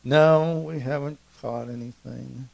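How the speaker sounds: loud NO, then sinking down; annoyed reply. Acted. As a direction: admit it grudgingly, mildly irritated. Embarrassed fishermen answer the stranger.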